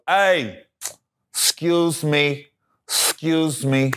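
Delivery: slow, careful interrupting voice; a hint of a timid heckler; polite white guy. Heckler stands up at corporate show, slow and overly polite. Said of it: "This is how the white dude's talking".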